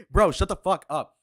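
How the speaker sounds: loud, laughing outburst; laughing shout. Real, not acted. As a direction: yell it through a laugh.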